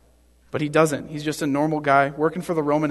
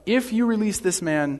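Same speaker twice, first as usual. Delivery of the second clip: raised-pitch call of protest, no real shout; crying out; 5 semitones higher than usual. Acted. The crowd objecting to Pilate releasing him, mildly crying out. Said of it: "But the Jews cried out".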